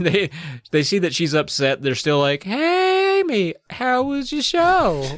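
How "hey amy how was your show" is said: high, slow, drawn-out singsong; oblivious cheery greeting. Acted. Mom and sister to upset Amy, cheery singsong. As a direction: greet her with hammed-up cheer.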